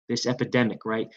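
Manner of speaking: ordinary talk, nothing marked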